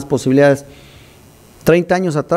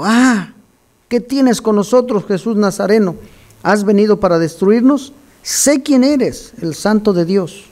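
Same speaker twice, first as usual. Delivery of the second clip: demon crying out; 3 semitones higher, slower than usual. Acted. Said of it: "un hombre con espíritu inmundo que dio voces".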